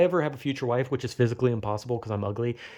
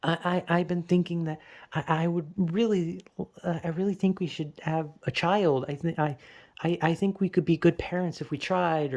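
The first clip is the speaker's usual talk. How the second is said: hesitant lightly voiced wife; imitating hesitant wife; 3 semitones higher than usual. A husband mimicking his wife haltingly asking for a child. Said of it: "she's just like".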